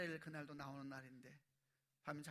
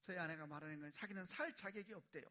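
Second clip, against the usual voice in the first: ordinary delivery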